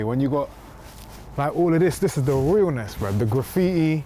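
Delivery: lightly voiced East London roadman; roadman vlogger character. Comedian in character touring the gym, light roadman swagger. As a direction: swagger through the tour casually.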